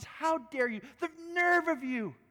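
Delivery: high, cutting indignation; angry lawyer. Retold or imitated. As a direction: cut her off, scornful. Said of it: "the man cuts her off and says".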